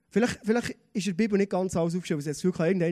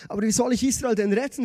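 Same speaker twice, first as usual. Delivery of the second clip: louder, protesting question; raised voice, mildly acted protest; Gideon calling out; 3 semitones higher, 6 dB louder than usual. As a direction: cry out in objection. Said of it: "rief Gideon".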